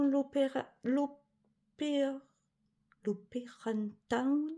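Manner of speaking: l'opéra, l'Opéra Town lentement, avec un accent anglais exagéré; faux accent anglais. Shown as a demonstration. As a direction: se moquer de son propre accent anglais. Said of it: "Et mon accent superbe". (accent anglais forcé et lent)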